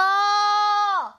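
high, bursting laugh that falls away. Real, not acted. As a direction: break into a giggle. Laughs after her dinner call.

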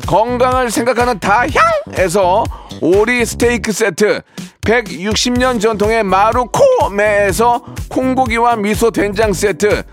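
brisk sponsor list read. Acted. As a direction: read the prizes like an ad.

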